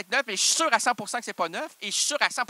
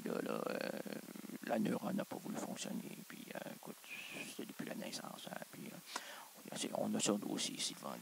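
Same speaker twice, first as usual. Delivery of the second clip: much softer, low, half whispered; hushed aside; 7 semitones lower, 12 dB quieter than usual. Acted. Host whispers a mock case file on Mr Négation.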